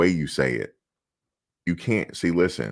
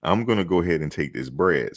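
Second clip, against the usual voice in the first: higher, cheeky clapback at reporters, with laughs; ungrateful sass; 4 semitones higher than usual. Shown as a demonstration. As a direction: fire back at the reporter, mocking and cocky. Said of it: "So you can't say that".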